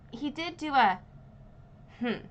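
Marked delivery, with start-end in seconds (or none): 2.0-2.2 short grunt. Retold or imitated. Friend imitating the dad's reaction, short hmm grunt. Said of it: "like a, a grunt".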